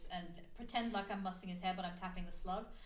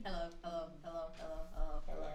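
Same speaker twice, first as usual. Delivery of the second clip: slow, drawn-out creature hellos; slow slurpy slug; 4 semitones lower than usual. Acted. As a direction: sound like a slimy slug calling in your head. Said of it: "Why does it have to be that voice?".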